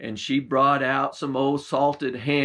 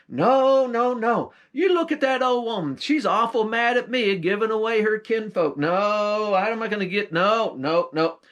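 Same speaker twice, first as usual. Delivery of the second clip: mock protest; 4 semitones higher than usual. Jack pretends to argue with the talking hide. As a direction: brush off the hide in a hammed-up voice.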